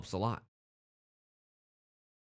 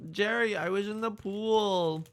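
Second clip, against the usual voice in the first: slow, higher quoted line; lightly voiced Seinfeld character; Seinfeld quote voice; 6 semitones higher than usual. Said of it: "quoting Seinfeld".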